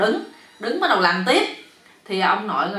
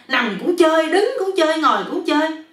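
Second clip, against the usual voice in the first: high, loud mock shouting; imitating the yell; 8 semitones higher, 6 dB louder than usual. Husband confronting friend about the yelling, imitating the yell. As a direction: mimic his shouts in complaint.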